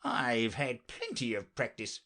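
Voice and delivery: slow, solemn insistence; very grave. Acted. Knight defends his riding to Alice, very gravely. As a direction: insist slowly with understated gravity. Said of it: "the knight said very gravely".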